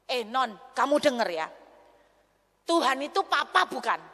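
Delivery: rebuking a desperate friend, firm and loud; stern rebuke. Retold or imitated. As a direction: confront her sharply. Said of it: "Saya akhirnya nguamuk".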